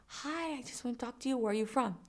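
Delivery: soft, tentative imitation of a man; mock-timid greeting, quietly; imitated soft approach. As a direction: imitate a stranger sidling up softly. Voices shy approaching dad.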